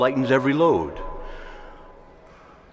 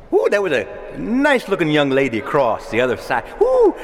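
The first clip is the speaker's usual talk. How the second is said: excited woo. Retold or imitated. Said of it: "recalling a seventh-grade crush".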